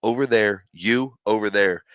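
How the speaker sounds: slow, firm mock order from his wife; wife parting husband and son, slow firm command; stern wife. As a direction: split them up slowly, like a small but stern mom. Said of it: "and she says".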